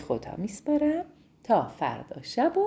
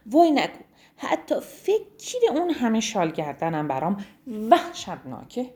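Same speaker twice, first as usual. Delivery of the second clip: a cough, then sad whiny giraffe voice; sadly; 2 semitones higher than usual. Acted. Zizi the giraffe telling the rhino the scarves sound awful, sadly. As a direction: complain sadly after coughing. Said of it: "با ناراحتی گفت".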